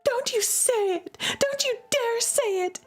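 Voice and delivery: high, tense forbidding; fierce warning. Acted. Sister cutting off her brother's slur, high warning. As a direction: dare him to say it.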